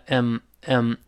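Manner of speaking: "嗯" as a reduced "I'm", just a closed-lip hum; weak form I'm. Shown as a demonstration. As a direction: shrink "I'm" to a short "嗯". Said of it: "这个I'm在这儿弱读". ("I'm"弱读成"嗯")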